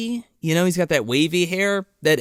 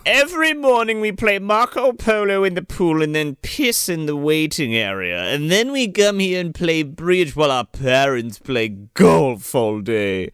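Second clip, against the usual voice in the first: mock snobby rich kid. Continuing mock rich-kid voices.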